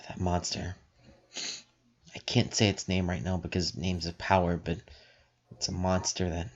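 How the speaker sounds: sigh, then soft guarded speech; low-key secretive explanation; quiet. Acted. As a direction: keep it hushed, as if overheard. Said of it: "kinda quickly but quietly".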